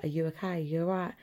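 quiet, caring check on someone; concerned check-in. Shown as a demonstration. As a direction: ask gently as if they're upset. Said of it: "if you're upset, people would be like".

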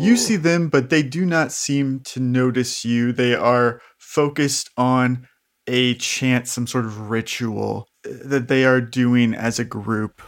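measured game master narration; scene-setting narration. A narrator's reading. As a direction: lay out the scene deliberately.

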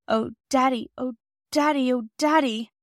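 high, pleading cry for father, acted; distressed child. A narrator's reading. Distressed child clinging to mother.

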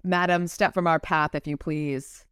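amateur English accent, as read by an American. Shown as a demonstration. Redoing Michael's line for the co-host, English accent. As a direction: put on a polite English accent. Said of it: "a lovely accent here".

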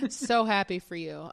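forced, tight-jawed well-wishing; through gritted teeth. Pretend. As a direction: say it with clenched teeth. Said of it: "she says through gritted teeth".

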